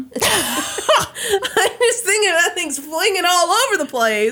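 high-pitched, laughing bit of silly machine chaos; lightly acted machine impression, breaking into laughter; sorting machine impression. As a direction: act out a sorting machine through giggles. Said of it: "Brandy's impression of a sorting machine".

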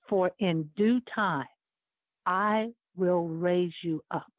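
slow hushed whisper as the Lord's voice; slow whispered promise from above; quiet whisper. Retold or imitated. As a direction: breathe it softly like a voice in the heart. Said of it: "And quietly, the Lord spoke to my heart".

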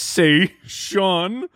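"Conversation" drawn out slowly, syllable by syllable; whole word emphasized. Retold or imitated. Teasing a co-host's pronunciation, every syllable of "Conversation" emphasized. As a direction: exaggerate every syllable of "Conversation" with a rising end. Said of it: "emphasize the entirety of the word".

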